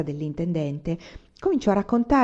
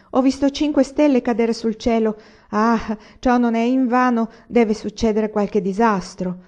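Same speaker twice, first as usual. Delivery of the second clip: high, loud voice foretelling disaster; strident voice; 4 semitones higher, 6 dB louder than usual. A narrator's reading. Rebecca warning neighbours of a falling-star omen, strident. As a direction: raise the voice in superstitious alarm, stretching the omen. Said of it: "diceva la voce stridula di Rebecca".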